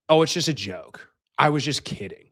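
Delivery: lightly mimicked girlfriend's excuse; mocking excuse. Girlfriend owning up to her prank, lightly mocked.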